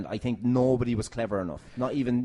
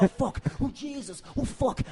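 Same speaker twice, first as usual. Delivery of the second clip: panicked dodging; 12 semitones higher than usual. Retold or imitated. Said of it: "You're like".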